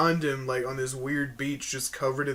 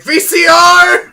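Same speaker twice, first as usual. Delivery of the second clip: high, slow drawn-out yell; slow shout; 23 dB louder, much slower than usual. Retold or imitated. Quoting Coach McGurk clip.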